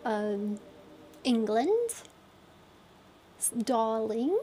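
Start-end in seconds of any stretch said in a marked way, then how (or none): 3.4-4.4 darling in a posh-ish British lilt; British accent. Shown as a demonstration. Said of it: "Surely you're qualified enough for a British accent then?".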